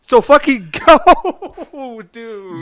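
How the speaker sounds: loud, high, drawn-out mock exasperation; exasperated outburst. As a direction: stretch it out like you're fed up, then drop off on the last word. Exasperated retort to nagging Atreus.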